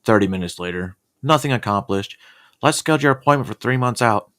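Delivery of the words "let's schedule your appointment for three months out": mock chirpy therapist. Acting out his therapy session.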